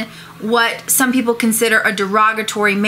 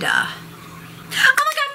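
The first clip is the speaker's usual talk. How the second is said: whispered very high and slow; much slower than usual. Shown as a demonstration. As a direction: breathe it out in a tiny whisper. Demo series of OMG variants.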